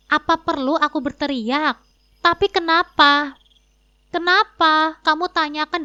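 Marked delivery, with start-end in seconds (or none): 2.2-3.3 raised, insistent "but why?"; loud demand. Acted. Husband loudly demanding why his wife blocked the cards. 4.1-5.8 sharp raised echo of his question; loud retort. Acted. Wife loudly throwing husband's question back at him.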